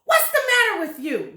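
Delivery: high, loud startled shout; loud shocked husband; alarmed shout. Acted. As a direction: yell at your screaming wife. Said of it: "Mister Twit said".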